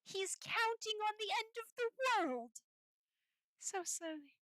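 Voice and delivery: shocked outrage at a villain's plan; outraged exclaim. Real, not acted. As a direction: rail against him. Outraged at the collector.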